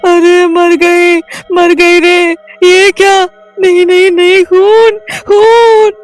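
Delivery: very high, loud panicked shrieks; screaming in terror, building to a shout; terrified screaming. Acted. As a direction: scream at the blood. Blood rains from shower.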